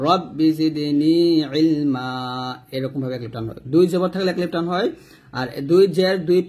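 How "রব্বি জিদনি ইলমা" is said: ইলমা ending drawn into ইলমা-আ by one alif; slow Quran recitation, stretching ইলমা at the stop. Shown as a demonstration. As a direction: recite রব্বি জিদনি ইলমা slowly, lengthening the final আ. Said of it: "এই মাতে কিন্তু আমরা ওয়াকফ ধরলে এক লিফ টান দিব".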